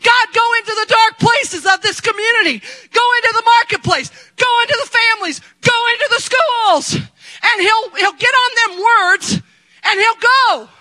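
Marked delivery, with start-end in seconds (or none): 0.0-6.9 prophetic prayer. Shown as a demonstration. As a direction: command it out like a prophecy. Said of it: "start prophesying every morning".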